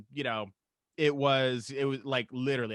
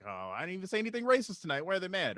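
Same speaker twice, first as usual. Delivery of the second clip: higher-pitched, mildly baffled protest; puzzled protest; 5 semitones higher, faster than usual. Retold or imitated. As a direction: lift the pitch in innocent confusion. Retelling his protest to security.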